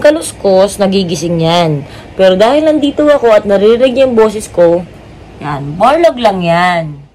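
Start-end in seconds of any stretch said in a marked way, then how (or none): 5.4-7.1 soothing. Real, not acted. Soothing over sleeping dog.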